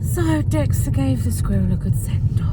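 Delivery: hushed whisper, barely voiced. Real, not acted. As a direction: whisper it like a secret. Sudden whispered aside to camera.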